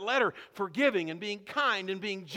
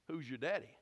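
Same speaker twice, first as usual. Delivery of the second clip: soft question; 6 semitones lower, 11 dB quieter than usual. Shown as a demonstration. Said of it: "we have to ask the question".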